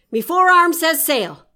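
loud pirate sailor voice; gruff shouting first mate. Acted. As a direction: bark it like an old salt. Bosun speaks in story.

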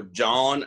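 JOHN drawn out slowly as spelt; over-enunciated. Shown as a demonstration. Sceptic objecting to slang, over-enunciated JOHN. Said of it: "stop saying it like an asshole".

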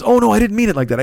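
imitated "didn't mean it" fluster; retold apology. Retold hurried apology to narrator.

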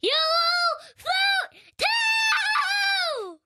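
slow, creepy singsong clown; Pennywise clown impression. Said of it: "your Pennywise dancing clown impression".

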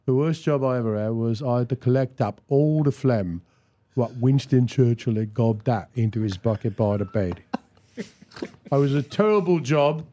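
lightly played Cockney comic character; deadpan Cockney storyteller; Cockney accent. Voice actor doing Derek and Clive with friend, Cockney accent. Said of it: "I wanna do Cockney".

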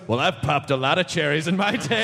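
Michael Douglas. Retold or imitated. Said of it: "Michael Douglas goes".

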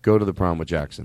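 very deep low voice. Pretend. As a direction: drop the voice as deep as possible. Deep voice demo.

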